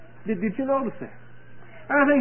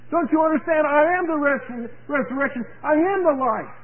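higher, fervent preacher's quote; emphatic declaration; 5 semitones higher than usual. Retold or imitated. Preacher voices Jesus explaining to Martha, emphatic declaration. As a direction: declare it insistently with lifted pitch.

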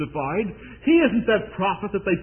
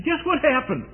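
put-on little girl; 8 semitones higher than usual. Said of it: "She says".

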